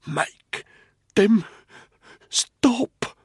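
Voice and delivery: broken, breath-heavy whisper, word by word; laboured whisper. A narrator's reading. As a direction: force out each word with great effort. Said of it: "He managed to whisper three words".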